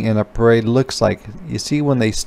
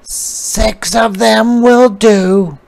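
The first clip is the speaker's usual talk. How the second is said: high, slow, louder spider voice; little spider; 11 semitones higher, 6 dB louder, slower than usual. A narrator's reading. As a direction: answer mama firmly. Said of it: "said the eensy weensy spider".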